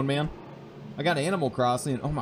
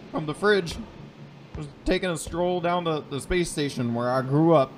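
lazy bro voice; 4 semitones higher than usual. Retold or imitated. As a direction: play a sleepy slacker dude. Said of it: "Like, you're like".

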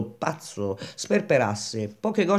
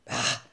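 softer, breath-heavy "Ah!"; exhaled exclamation; 6 dB quieter than usual. A narrator's reading. Baldini reacting to Grenouille's yes, exhaling sharply. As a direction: let the breath out in one go. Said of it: "buttò fuori tutto il fiato".

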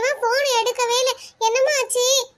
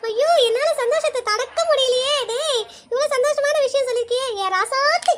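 overjoyed grandmother; 3 semitones higher than usual. Acted.

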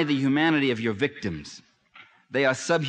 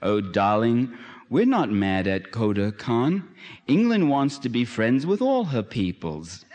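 mock tender; 3 semitones lower, slower than usual. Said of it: "The British colonel answers tenderly".

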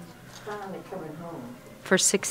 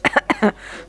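laugh; 3 semitones higher than usual. Real, not acted. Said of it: "I got so excited".

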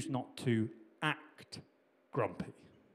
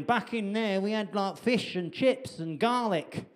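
put-on higher-pitched, moaning northern English accent; 6 semitones higher than usual. Preacher voices grumbling Israelites, northern English accent. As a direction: whine about the food in a northern English accent. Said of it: "they didn't say garlic mayo in a northern accent".

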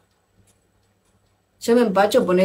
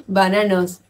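mocking repeat. Real, not acted. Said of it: "Nunca en mi vida escuché bananos".

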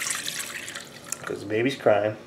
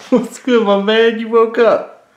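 higher-pitched, upbeat hello; 5 semitones higher than usual. Real, not acted. Parent greeting the baby who woke up, cheery. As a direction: greet the little one brightly, pitched up.

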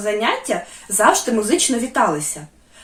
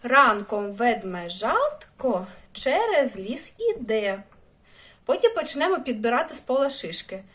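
softer rhyme demo; slower than usual. Shown as a demonstration. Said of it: "давайте ми їх зараз вивчимо".

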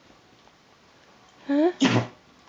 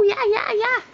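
excited; 12 semitones higher, 4 dB louder than usual. Real, not acted. High excited cries.

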